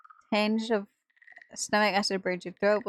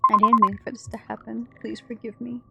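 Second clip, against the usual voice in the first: sobbing plea; 2 semitones higher, 5 dB louder than usual. Acted. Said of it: "ragged sobs".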